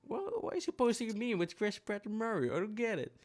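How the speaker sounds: high, puzzled inner voice; confused. Retold or imitated. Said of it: "I was like".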